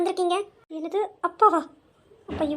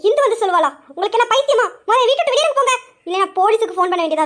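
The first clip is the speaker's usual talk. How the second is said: angry shout; 3 semitones higher than usual. Acted. Mother orders the visitors out, shouting angrily. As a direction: throw them out of the house.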